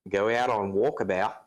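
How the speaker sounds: put-on amateur Aussie accent at normal pitch; limited mock-Australian vowels. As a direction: attempt an Australian accent, leaning on walkabout. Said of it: "All I can say is".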